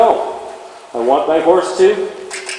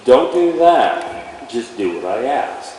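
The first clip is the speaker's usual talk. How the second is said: calm, firm to horse; 5 semitones lower, 3 dB quieter, much slower than usual. Shown as a demonstration. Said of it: "What we're trying to get across".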